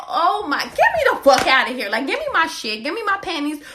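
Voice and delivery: mock outraged demand; fed up. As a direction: get me out of here now. Demanding to leave.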